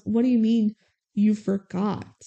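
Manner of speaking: acting out hurt disbelief, slowing down; indignant retelling. Rhea confronts Max over the forgotten shout-out, retold indignantly. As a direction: spell out the grievance slowly, as in a retold quarrel.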